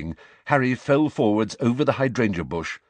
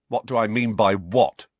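coldly; 3 semitones higher, 5 dB louder than usual. Acted. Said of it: "said Harry coldly".

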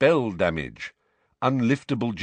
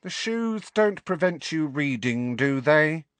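impatient witch voice, higher; irritable; 5 semitones higher than usual. Acted. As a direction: snap at him impatiently.

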